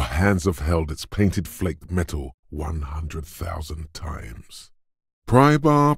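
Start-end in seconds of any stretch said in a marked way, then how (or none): 5.3-6.0 very high, sustained excited call; rapturous exclamation. Acted. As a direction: sing its praises ecstatically. Rapturous chant of tool's name.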